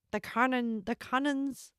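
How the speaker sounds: pirate voice slipping into Scottish; unsure pirate accent, a bit Scottish; attempted pirate accent. Shown as a demonstration. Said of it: "No, that's Scottish".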